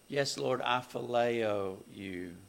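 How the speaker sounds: "phileo" drawn out slowly for emphasis; stress on phileo. Acted. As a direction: lean slowly on the word "phileo". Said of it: "you get my emphasis".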